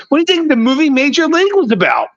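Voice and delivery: rising outrage at the doubter; heated argument. Real, not acted. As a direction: pitch way up, insisting hard.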